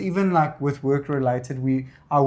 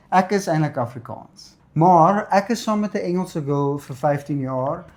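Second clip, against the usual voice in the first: Afrikaans accent; 2 semitones higher than usual. Real, not acted. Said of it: "Are you guys Afrikaans?".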